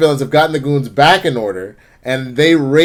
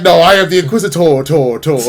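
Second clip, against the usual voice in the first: mock villain echo; 3 dB louder than usual. Villain announces himself with echo.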